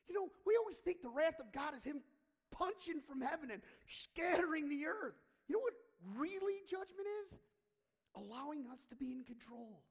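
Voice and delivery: high, loud preaching; preaching at full force. Acted. Preacher building to a fervent peak before the congregation. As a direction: drive the point home to the church.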